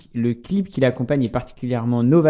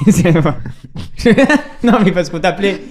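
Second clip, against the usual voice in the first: higher-pitched, giggly explanation; laughing while explaining; 5 semitones higher, 4 dB louder than usual. Real, not acted. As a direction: break up laughing as you explain. Breaks up over the nickname.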